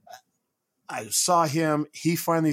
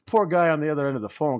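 ordinary delivery

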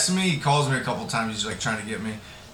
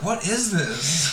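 higher-pitched, drawn-out disbelief; baffled; 4 semitones higher, much slower than usual. Retold or imitated. Listener reacting to fifty-minute songs, baffled. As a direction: stretch it out in mock bafflement.

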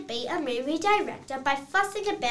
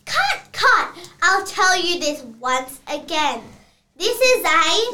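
annoyed cut; 2 semitones higher, 5 dB louder than usual. Acted. Director scolding his actors, loud annoyed call. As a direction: halt the take, fed up.

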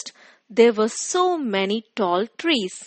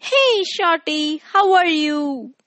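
higher teasing stork voice; 5 semitones higher than usual. Acted. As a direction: tease like a cheeky bird. Stork teases the fir tree.

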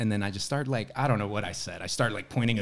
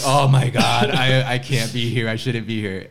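panicked; 8 dB louder than usual. Retold or imitated. Retold panic, much louder.

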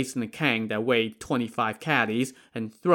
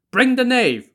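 much higher, loud barked command; pompous shrill tyrant; 12 semitones higher, 7 dB louder than usual. Acted. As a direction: order it like a haughty tyrant. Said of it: "Prefect Cai ordered".

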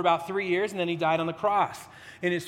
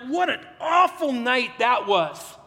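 weary grumble; 3 semitones higher, slower than usual. Retold or imitated. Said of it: "you can picture 'em just going".

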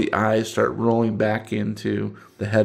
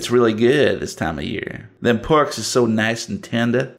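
put-on Southern accent. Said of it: "Southern one minute and Cajun the next".

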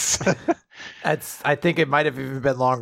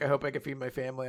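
quiet; 3 semitones lower, 10 dB quieter, faster than usual. Retold or imitated. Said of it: "I see the one about".

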